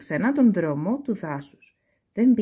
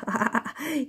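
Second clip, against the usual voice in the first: fox's gleeful laugh; 5 semitones higher, 3 dB quieter than usual. A narrator's reading. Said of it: "είπε χαρούμενα η αλεπού".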